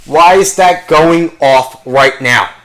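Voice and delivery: high-pitched, slowed-down outraged pet; indignant dog. Acted. Woken dog scolds its owner over the alarm, indignant and drawn out. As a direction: complain like a dog woken too early. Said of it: "fucking dog sitting there barking".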